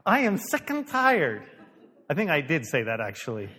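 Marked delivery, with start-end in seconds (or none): 0.0-1.4 slow, loud, high complaint; fed-up retold outburst. Pastor retelling his reply about patience, loudly fed up. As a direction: draw out each fed-up word.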